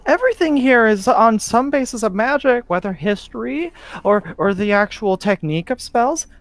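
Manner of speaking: put-on high, incredulous kid scoffing; exasperated child. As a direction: scoff at a silly question. Ghost boy exasperated.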